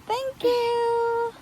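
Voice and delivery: high, lilting, held last word; sing-song thanks. Acted. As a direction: sing out a sweet thank-you. Thanking the child helper.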